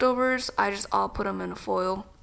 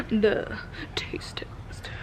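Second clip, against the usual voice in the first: whisper; much slower than usual. Real, not acted. Whispers slowly.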